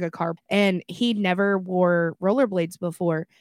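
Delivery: normal talking voice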